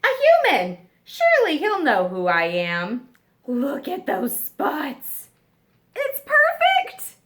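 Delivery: thrilled someone will know him; excited giraffe. Acted.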